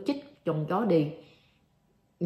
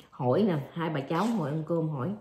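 ordinary delivery

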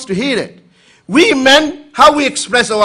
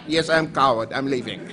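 meek retreat; 5 semitones lower, 6 dB quieter than usual. Retold or imitated. Husband retreats meekly.

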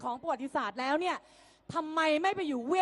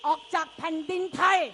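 ordinary talk, nothing marked

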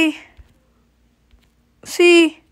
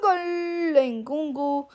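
drawn-out goal call; 6 dB quieter, much slower than usual. Real, not acted.

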